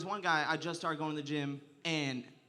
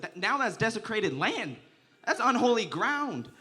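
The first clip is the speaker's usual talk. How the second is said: mock solemn; 5 semitones higher, 5 dB louder, slower than usual.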